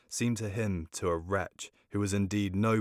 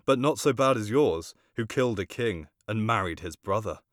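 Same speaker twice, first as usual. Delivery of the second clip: accusing retort; 2 semitones higher, 6 dB louder than usual. Acted. Hamlet accuses his mother.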